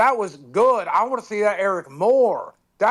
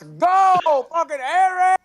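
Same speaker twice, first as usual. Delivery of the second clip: excited cheer; 8 semitones higher, 4 dB louder, slower than usual. Real, not acted. Cheering for Eric.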